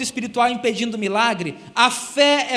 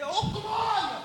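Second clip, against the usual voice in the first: rising mock exclamation of praise; light parody of a showy believer; mock praise cry; 9 semitones higher, 5 dB quieter, much slower than usual. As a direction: imitate the noisy worshipper again. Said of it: "que fulano lá é mais espiritual".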